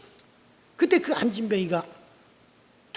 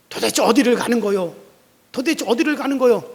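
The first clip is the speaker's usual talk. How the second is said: raised, louder demanding question; indignant protest; 5 dB louder than usual. Acted. Lame man on the pastor's back demanding where they go. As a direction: demand to know where you're going.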